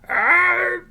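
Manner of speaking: very loud, high hammed-up cow; loud cartoon cow sneeze-moo; cow sneezing moo. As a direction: build up and bellow a moo. Acting the cow.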